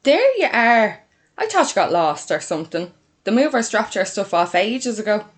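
loud, excited Dublin sister's welcome; loud greeting. Acted. Sister flinging the door open to May, loud welcome. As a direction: greet her at full volume.

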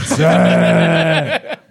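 loud, high, drawn-out cry; mock shout. Host breaking the silence, long comic shout. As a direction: bellow it and hold the vowel. Mock outburst amid stage chaos.

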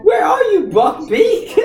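high, loud call across a field. Pretend. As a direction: shout out looking for him. Calling for the hippogriff.

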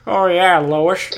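exaggerated film-style Boston; cartoonish Boston accent. Shown as a demonstration. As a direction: ham up the Hollywood Boston accent. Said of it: "they over amplify the accent. They make it like".

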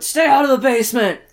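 loud, high mock-horror yell; hammed-up alarmed shout; shouted warning. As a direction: yell it at characters in a scary story. Reads own note as a warning.

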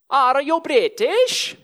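put-on high, loud, slow Italian accent. Local girl on a bicycle calling to stranded tourists, mock Italian accent. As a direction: call it out in a hammed-up Italian accent. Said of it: "I apologise for my accent".

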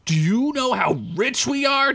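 high giddy cry; overjoyed. Acted. Derek hugging Squeak over the gem, high and giddy. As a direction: squeal with delight. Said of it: "Derek said".

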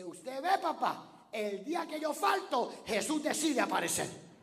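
put-on loud, high indignant child's cry; a boy's outraged punchline, loud and high; angry little boy. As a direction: shout it as an offended Juanito. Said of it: "Y le dice".

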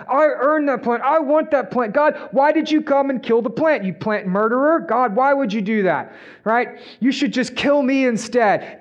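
high, whining sulk, pushing the words up; whiny Jonah tantrum. Acted. Preacher acting out Jonah raging at God over the plant, whiny tantrum.

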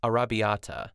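arrabbiata sounded out carefully in Italian style; careful pronunciation. Shown as a demonstration. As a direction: say arrabbiata syllable by syllable, a-rab-bi-a-ta. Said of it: "I wanna, like, make sure I say this right".

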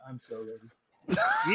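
slow, drawn-out hype shout; excited shout. Real, not acted. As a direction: yell it like you can't wait. Hyping up unboxing on stream.

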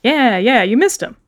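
chirpy nervous shopkeeper; sea otter voice. Acted. Otter insists.

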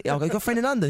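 imitated American. Singer retelling a Vegas chat, imitated American. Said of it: "what I love about Americans".

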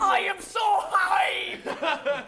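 laughing shout. Real, not acted. Player yelling laughingly.

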